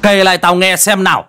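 can't believe it, pressing for details; disbelieving. A narrator's reading. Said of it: "như không tin". (ông già sửng sốt không tin, gặng hỏi)

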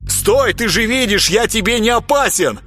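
high, alarmed plea; mild mock fright; frightened cry. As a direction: beg him to stop in fear. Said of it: "испуганно закричал Грехвост".

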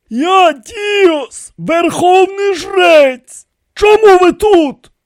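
high, loud priestly authority; concerned, reasoning voice that expects to be obeyed; authoritative. A narrator's reading. Dios confronts the dead pharaohs, concerned but commanding. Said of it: "цілком спокійний, розсудливий голос, занепокоєний, але з обертонами безсумнівної владності".

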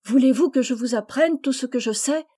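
plus aigu et plus fort, plein d'entrain; eager proposal. Acted. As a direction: convaincre avec enthousiasme. Rose eagerly proposes teaching. (proposer avec entrain, voix plus haute)

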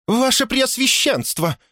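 very high, drawn-out cry; high-pitched panicked appeal; breathless alarm. A narrator's reading. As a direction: exclaim as a frantic housekeeper who has run in. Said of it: "задыхалась от бега".

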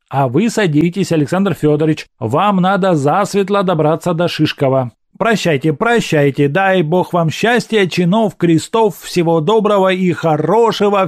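put-on high, loud bustling old neighbour; Anton Ivanych. Anton Ivanych urging the mother and coachman, high and loud. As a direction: hurry everyone along with blessings.

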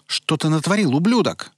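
high, loud angry howl; furious howl. Acted. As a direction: howl it at him in fury. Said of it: "взвыла Сара".

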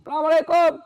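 loud, high greeting on arrival; cheerful greeting. Retold or imitated. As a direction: greet the officers brightly. Greeting at police station.

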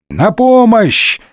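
high, slow desperate call for help; Д'Артаньян dragged by kids, begging for help; desperate cry. A narrator's reading. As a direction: cry out, overwhelmed. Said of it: "отчаянно взывал несчастный гасконец".

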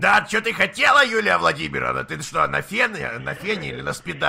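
russian prison slang. Acted. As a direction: bark it like a street thug. Prank caller turns on rude thug. (наглый блатной наезд)

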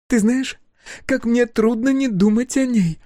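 high, strained, cracking; holding back tears; breaking voice. A narrator's reading. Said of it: "срывающимся голосом".

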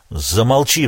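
usual speaking voice

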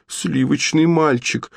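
high, slow crying character voice; tearful wail. Acted. Troll princess cries out for the boy, wailing. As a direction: wail his name in tears. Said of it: "заплакала Троллбелла".

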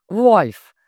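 loud call across the room. A narrator's reading. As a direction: shout the name to summon him. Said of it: "позвал Джон".

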